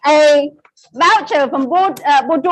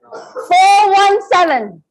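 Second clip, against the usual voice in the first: slow repeat; 2 semitones higher, slower than usual. Shown as a demonstration. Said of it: "repeat of number".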